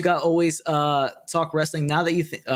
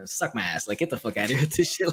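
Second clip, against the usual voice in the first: disgusted brush-off; 4 semitones lower, 3 dB quieter than usual. Retold or imitated. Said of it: "I was like".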